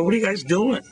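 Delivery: high, bright quizzical question; curious question. Retold or imitated. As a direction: ask it amused and curious. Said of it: "I looked at her and go".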